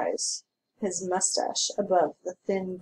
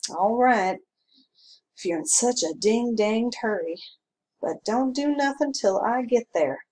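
grudging; 4 semitones higher, 4 dB louder than usual. Acted. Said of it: "said the constable grudgingly".

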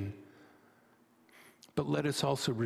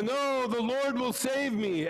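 higher, self-assured refusal; stubborn rabbi; 6 semitones higher than usual. Acted. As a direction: turn it down with calm confidence.

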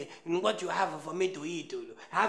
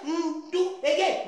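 laughing mock command; 7 semitones higher, 4 dB louder, slower than usual. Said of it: "I say".

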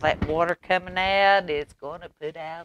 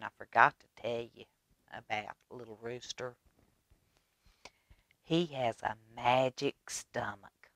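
whisper; 3 semitones lower, 7 dB quieter than usual. A narrator's reading. Secret told to children.

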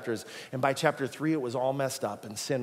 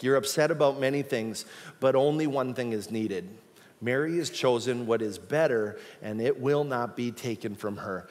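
caring and loving; 2 semitones lower than usual. Shown as a demonstration. Jesus correcting Martha in the kitchen, caring and loving. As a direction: say it kindly, like a gentle rebuke. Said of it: "probably caring and loving".

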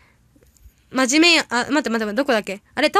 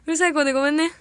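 cute little voice; 4 semitones higher, faster than usual. Shown as a demonstration. Granting chat's request, cute small voice. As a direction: coo it like a shy little girl. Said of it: "ハンバーグちゃんの声かわいい小声".

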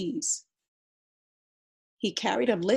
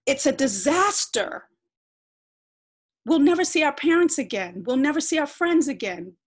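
higher and louder, building to a wail; despairing rant; 6 semitones higher, 6 dB louder than usual. Acted. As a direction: pile up every loss in panic. Sister rants in despair.

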